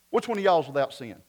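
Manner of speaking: put-on quick Southern-accented question; Jesus with Southern accent. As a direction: ask it in a folksy Southern accent. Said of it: "I always think of Jesus having a southern accent".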